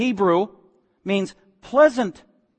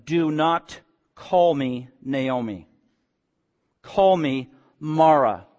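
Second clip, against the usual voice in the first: slow, heavy, bitter; weighty, mournful renaming; bitter Naomi; 4 semitones lower, much slower than usual. Acted. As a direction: drag each word out in bitterness.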